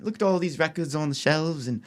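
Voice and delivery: mild mock British accent; lightly voiced Brit. Shown as a demonstration. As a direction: read off names in a put-on British accent. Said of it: "I could do British accent".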